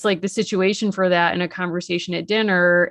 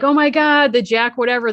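higher, louder mock excitement; excited retelling; 5 semitones higher, 5 dB louder than usual. Girl spotting the long-awaited supply ship, excited. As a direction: act out an urgent sighting.

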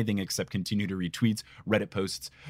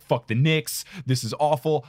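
retold anger; 4 semitones higher, 4 dB louder than usual. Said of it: "I was super pissed".

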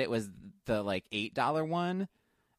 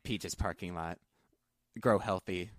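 mock kill-list recital; 5 semitones lower than usual. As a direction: intone each name like a private vow. Recites Arya Stark style list.

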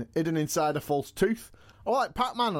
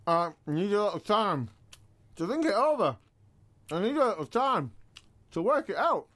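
stalling for time. Acted. Wrestler putting off the podcast host, stalling for time. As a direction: play for time, pitch swooping up and down. Wistful answer under pressure to return.

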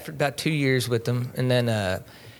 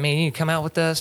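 put-on Hispanic accent; 5 semitones higher, faster than usual. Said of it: "that's how he talks".

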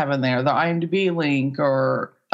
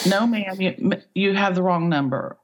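put-on polite Southern accent; 3 semitones higher than usual. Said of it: "he's being very polite, very Southern".

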